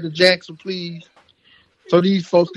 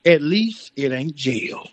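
slow, deadpan quote of the motto; slow mocking quote; 7 semitones lower, slower than usual. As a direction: read it like a sad slogan. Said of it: "where the motto is".

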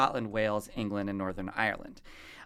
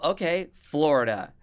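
Southern accent; 4 semitones higher, 6 dB louder, slower than usual. Shown as a demonstration. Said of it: "same thing with Southern accents".

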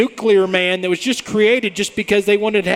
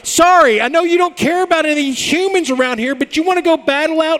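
Superman voice; 10 semitones higher than usual. Retold or imitated. Voicing Superman in a mock quote.

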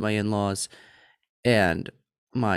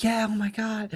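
high-pitched imitation of thrilled kids; excited little girls; 11 semitones higher than usual. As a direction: mimic daughters gushing over a puppy. Girls react to taking puppy.

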